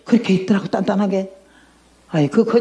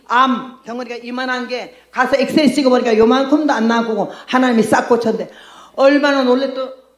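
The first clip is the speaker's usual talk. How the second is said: ordinary delivery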